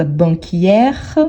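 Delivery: "banquière" with an open è; open È ending. Shown as a demonstration. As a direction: say "banquière", opening the final vowel before the r. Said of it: "vous voyez plus ouverte".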